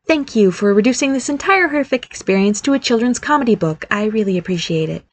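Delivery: mock gratitude, starting high and sinking; sarcastic. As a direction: thank them with hurt sarcasm, dropping away at the end. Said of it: "he said sarcastically".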